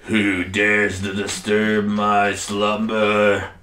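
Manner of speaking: slow, booming dragon awakened from sleep; sleeping ancient god. Acted. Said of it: "big ol' massive dragon appears".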